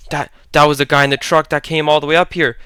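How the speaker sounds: usual speaking voice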